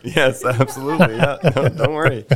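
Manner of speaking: laughing as he agrees. Real, not acted. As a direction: answer through a laugh. Laughs while answering the tease.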